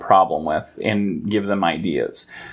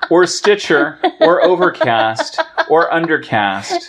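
silly excited; 6 semitones higher, 5 dB louder than usual. Acted. Silly loud list of apps.

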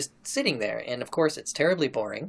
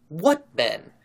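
surprised cry; 4 semitones higher, 4 dB louder than usual. Retold or imitated. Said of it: "cried the mistress with surprise".

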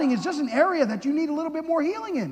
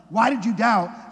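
condemning; 3 semitones lower, slower than usual. Retold or imitated. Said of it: "in our heads, like".

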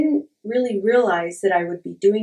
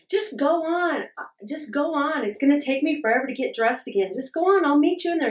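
exasperated urging; 7 semitones higher than usual. Retold or imitated. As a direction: shoo the husband off, fed up and pitched up. Losing temper, urging husband away.

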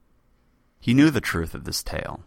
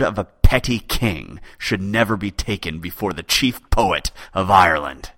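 vicious threat; 4 dB louder than usual. Acted. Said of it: "a vicious smile crossed his lips".

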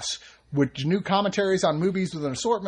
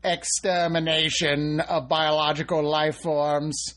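slow, even robot syllables; much slower than usual. Pretend. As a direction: drone it like a machine. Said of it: "I am a robot".

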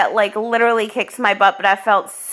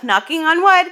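bright laughing aside, higher; 7 semitones higher than usual. Real, not acted. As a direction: say it through a laugh. Laughing, actually knocking.

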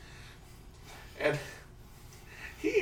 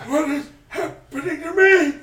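laughing; 12 semitones higher, 11 dB louder than usual. Real, not acted. Laughing at own mistake.

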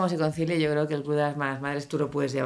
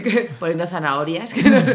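laughing; 6 dB louder than usual. Real, not acted. Laughing while praising guest.

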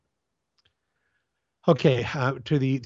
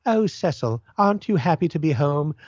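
mock drawing-room lady; 3 semitones higher than usual. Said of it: "like an old British drawing room comedy".

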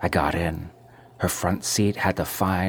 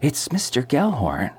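higher, eager landlady voice; bursting to share the news; excited gossip; 6 semitones higher than usual. A narrator's reading. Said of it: "with great excitement".

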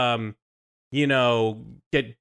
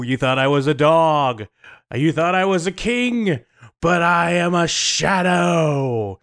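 villain voice. Acted. Guest gloating as the Shadow King, mild menace. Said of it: "I am the Shadow King".

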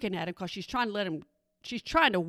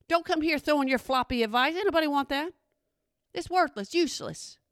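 scornful rant; 3 semitones higher than usual. Retold or imitated. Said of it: "I'm like".

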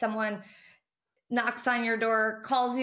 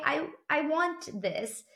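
slow, firm and sure of yourself; confident; 4 semitones higher, slower than usual. Shown as a demonstration. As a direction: claim it like it's already yours. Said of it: "say it with confidence".

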